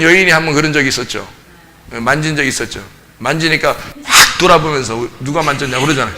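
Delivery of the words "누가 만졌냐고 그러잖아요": chuckling, a bit softer; light amused take on the question; said with a laugh. Retold or imitated. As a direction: toss the question off half laughing. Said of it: "소리 한번 팍 질러가지고".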